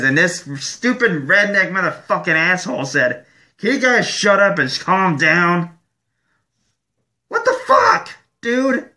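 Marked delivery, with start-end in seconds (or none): 3.6-5.7 a hint of a Southern accent; mock Southern accent. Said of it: "It's a fucking southern accent". 7.3-8.9 real indignant yell; outraged shout. Real, not acted. Outraged at the hushing redneck.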